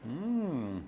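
talking between chews; muffled mm while eating; mouth full, chewing. Real, not acted. Seen 0: Bites wrap at -3, cheeks full and chewing while saying mm.

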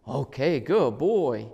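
put-on lifted, cheerful good boy; upbeat praise. Shown as a demonstration. Trainer praises the dog coming in, cheerful. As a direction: praise him warmly as he arrives. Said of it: "reward him".

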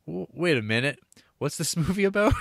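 mock bewilderment. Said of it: "it's like".

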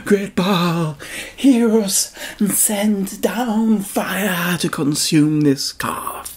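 high, loud wail that slows down on hear us; desperate shout. Acted. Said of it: "began to shout even louder".

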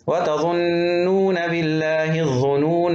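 slow chant, الظنون ending "-naa"; waqf with alef. Shown as a demonstration. Teacher reciting to show the stop, long alef on الظنون. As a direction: recite الظنون with a held final "aa". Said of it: "وقفًا بحط الألف".

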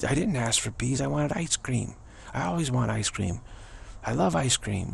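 put-on high, whiny child ranting about peas; sulky kid stamping at the parent, voice up high; child's tantrum.

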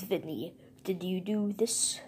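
whisper. Pretend. Toy questions in a hush.

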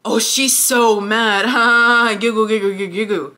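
mock her gleeful, giggly taunt; mocking giggly girl. Storyteller imitating the girl laughing behind the door, mocking. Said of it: "one of the bitches go".

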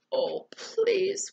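high pleading whimper. Acted. Eddie begging not to be found, whimpered. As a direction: plead in a small frightened voice. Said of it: "whimpered Eddie".

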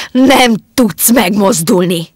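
slow, loud hypnotic command with "Nem" pressed; loud slow order to stay still. Acted. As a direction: drive each word in like a spell. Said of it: "Pillantása parancsolóan".

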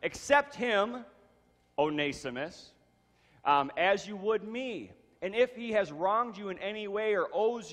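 measured scripture reading, lightly emphatic. Acted. Pastor reading Paul's letter to the congregation, measured reading. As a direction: read the letter aloud with care. Pastor reads Philemon aloud.

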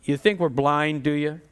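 usual speaking voice

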